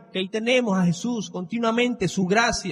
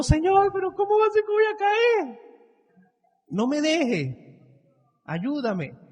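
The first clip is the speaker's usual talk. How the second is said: mock tearful plea; 10 semitones higher than usual. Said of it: "Llorando mínimo".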